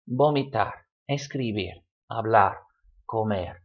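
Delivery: vomitar, escribir, hablar, comer each stressed on its final syllable; stress on last syllable. Shown as a demonstration. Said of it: "All stressed on the last syllable".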